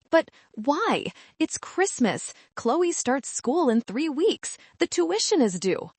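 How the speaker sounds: a hint of a desperate mother; pleading mother. A narrator's reading.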